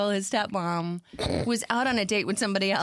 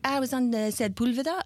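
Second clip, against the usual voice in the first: higher-pitched quote in mock French accent; imitated French accent; 4 semitones higher than usual. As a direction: retell it as the French friend. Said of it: "Has a fabulous French accent".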